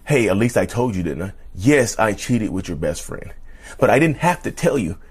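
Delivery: mock cheating partner. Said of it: "They think because they tell you".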